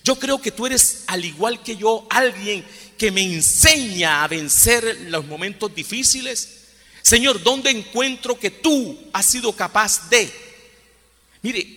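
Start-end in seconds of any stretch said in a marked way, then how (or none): 0.0-10.3 slow, higher pleading prayer to Jesus; a lightly raised, slowed prayer voice; prayerful plea. Acted. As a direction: beg Jesus slowly, lifting the voice. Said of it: "tenemos que preguntarnos es".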